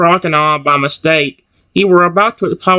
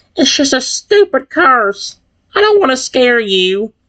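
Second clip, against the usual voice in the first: high, trembling, shaking, clicking insect voice; 8 semitones higher than usual. Voicing a cursed character reassuring a scared friend: shaking, clicking bug-like voice. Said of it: "His bug-like voice is shaking and clicking".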